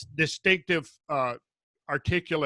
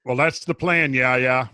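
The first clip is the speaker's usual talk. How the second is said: broad Minnesotan vowels; Minnesota accent; 4 semitones lower than usual. Pretend. Podcast host joking about a listener's name, Minnesota accent. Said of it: "Doesn't take you long to get it back".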